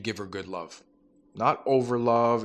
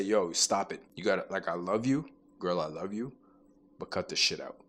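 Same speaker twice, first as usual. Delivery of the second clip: dad energy. Retold or imitated. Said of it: "That same tone, that dad energy".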